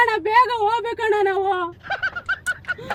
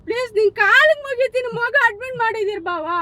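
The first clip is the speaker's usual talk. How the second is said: tearful pleading. Acted. Mother begging fake baba to let go.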